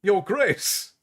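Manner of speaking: Your Grace repeated as a stunned question; shocked echo of a new title; startled echo. A narrator's reading. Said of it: "Laurie said".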